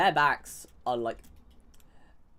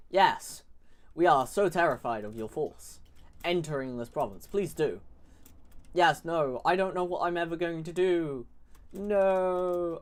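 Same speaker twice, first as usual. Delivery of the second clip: louder and higher, hammed-up fake fear; sarcastic mock terror; 4 semitones higher, 3 dB louder than usual. Taunting the AI enemy entering the province, in sarcastic mock terror. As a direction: pretend to be terrified of the enemy, laying it on thick. Mocking the enemy's feeble advance.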